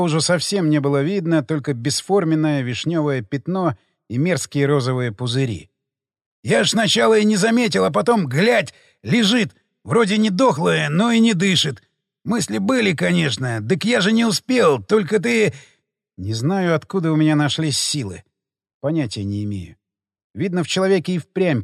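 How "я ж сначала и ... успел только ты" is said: frightened pleading. Acted. Cornered marauder explaining fearfully.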